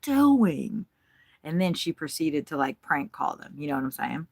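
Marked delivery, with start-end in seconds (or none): 0.0-0.8 whisper. Retold or imitated. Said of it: "I was like".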